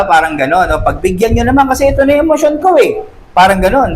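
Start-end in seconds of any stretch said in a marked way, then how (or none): 0.7-3.1 higher, fast pleading to be indulged; hammed-up "give in to me"; mock pleading. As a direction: rush it like a spoiled complaint. Same demanding voice, rushed.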